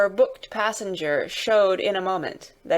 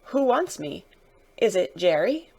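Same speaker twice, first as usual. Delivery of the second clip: slightly anxious, questioning voice; a touch of quaver; nervous passenger asking who calls; mildly quavering; 2 semitones higher than usual. Acted. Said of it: "with mildly quavering speech".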